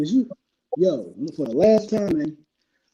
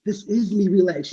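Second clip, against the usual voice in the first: calm turning angry. Real, not acted. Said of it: "Calm down".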